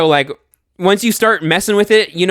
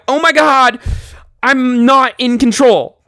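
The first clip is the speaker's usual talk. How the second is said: higher, louder panicked cry; mock panic, higher and louder; 8 semitones higher, 4 dB louder than usual. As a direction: blurt it out in sudden panic. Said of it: "this is where you're like".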